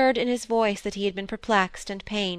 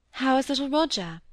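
eager; 5 semitones higher than usual. Acted. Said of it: "asked Molly eagerly".

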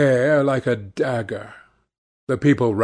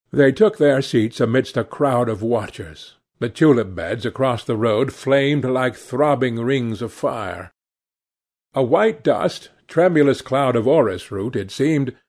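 plain reading voice

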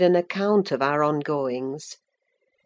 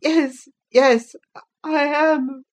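tearful; 9 semitones higher, 5 dB louder, slower than usual. A narrator's reading. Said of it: "The tears gushed from Linton's eyes".

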